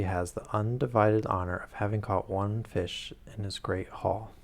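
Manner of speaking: steady read-aloud narration with quoted dialogue; reading the novel aloud to the stream, evenly paced; story narration. A narrator's reading. Streamer reads Sherlock Holmes aloud to her chat, narrating steadily.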